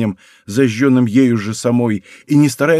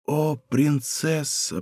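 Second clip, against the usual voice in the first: slow, much softer, breathless murmur; de Guiche overwhelmed, murmuring to the princess, slow and soft; soft babble; 7 dB quieter, much slower than usual. Acted. A faint, slow whisper of her title. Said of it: "пролепетал он".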